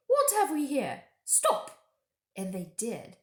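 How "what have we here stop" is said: higher, louder sharp witch command; witch halting sledge. Acted. Witch stopping the sledge, sharp command. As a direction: bark the stop. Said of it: "the witch said".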